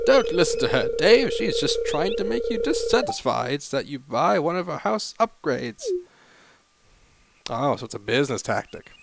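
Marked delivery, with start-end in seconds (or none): 0.1-5.8 animated small-town official; lightly acted warning voice; mayor character, cautioning. Mayor warns Dave about house upgrades, animated character voice.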